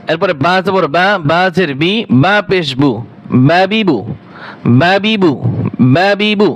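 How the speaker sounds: বাবিবু said quick with every vowel kept short; short vowels, no drawl. Shown as a demonstration. Teacher leading the class: বাবিবু short, with no drawn vowels. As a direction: run বাবিবু together short, no stretching. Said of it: "একটুও টান দেওয়া যাবে না".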